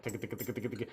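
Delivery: quiet rapid ticka clicks; feeding call sounds. Retold or imitated. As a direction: tick it out fast and soft. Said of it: "sitting in class going like".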